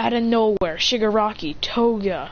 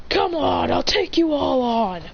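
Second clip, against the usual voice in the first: higher-pitched taunt to enemies; acted bravado, pitched up at the start; heroic challenge; 4 semitones higher, slower than usual. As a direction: dare them all to attack.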